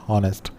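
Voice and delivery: ऑनेस्ट opening on the vowel, no H; silent H. Shown as a demonstration. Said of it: "हम सिर्फ ये बोलते हैं". (ऑनेस्ट, एच silent रखकर)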